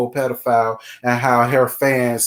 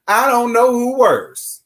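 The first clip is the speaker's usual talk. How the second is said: exasperated; 8 semitones higher, slower than usual. Real, not acted. Exasperated emphasis.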